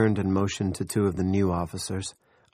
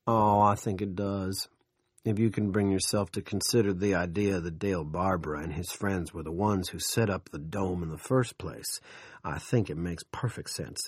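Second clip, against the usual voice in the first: smug. Acted. Big Jim smug, calm.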